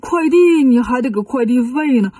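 character voice of a grumbling haggler; grumbling Bajie. Acted. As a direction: complain and refuse to work for free. Bajie haggles with the Dragon King.

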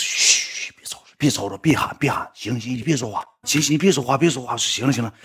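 hushed pleading; quiet him down urgently; hushing. Retold or imitated. Hushing the fan on plane.

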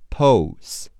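"Post" drawn out sound by sound; sounded-out pronunciation. Shown as a demonstration. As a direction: say "Post" slowly, stressed, in separated sounds. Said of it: "P O, po 是P O，S和T是S T".

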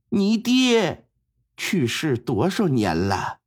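lightly voiced mother, slow and probing; a hint of an old mother testing her son; stern old mother. Mother slowly questions her son about his late father.

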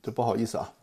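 lozenge stuck to the teeth; lozenge in mouth. Real, not acted. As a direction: talk around a sticky lozenge. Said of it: "含那个含片又粘牙上了".

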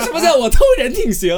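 high, loud, laughing protest; laughing indignant retort. Retold or imitated. To Da Qiao's player, retorting while laughing. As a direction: fire back, half laughing.

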